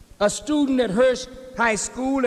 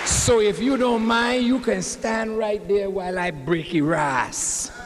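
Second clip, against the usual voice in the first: put-on West Indian accent; 2 semitones lower than usual. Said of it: "beautiful West Indian accent".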